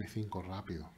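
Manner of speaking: fast hushed whisper. Real, not acted. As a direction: think it through under breath. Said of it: "susurro para sí". (susurro rápido)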